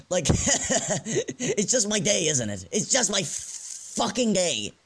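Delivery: slow, high, laughing in mock despair; bitter laugh. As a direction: laugh it off like the day is ruined. Bitter self-pity over pizza.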